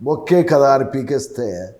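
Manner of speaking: film hero's warning, slow and measured; Chiranjeevi impression. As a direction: deliver the mass dialogue with slow menace. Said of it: "ఇలా చిరంజీవి గారు".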